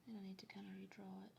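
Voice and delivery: soft unvoiced whisper. Real, not acted. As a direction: breathe it out, focused. Whispering while drawing.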